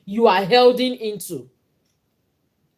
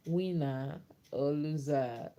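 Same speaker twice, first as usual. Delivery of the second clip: laughing; 7 semitones lower, 12 dB quieter, slower than usual. Real, not acted. Slow laughing delivery.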